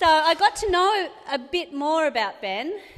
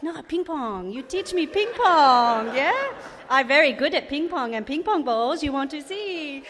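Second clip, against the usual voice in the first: a hammed-up fake Asian accent on a prank call, the greeting louder; mock Asian accent; 3 semitones higher, 4 dB louder than usual. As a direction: prank caller putting on a put-on Asian accent, loud hello. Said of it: "I'll try and do an Asian voice".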